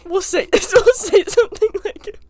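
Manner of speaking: high, giggly delivery; laughing while explaining. Real, not acted.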